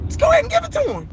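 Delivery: sarcastic mock advice; mock high sarcastic voice. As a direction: toss it off in a squeaky mock voice. Mocking Jerry's attitude.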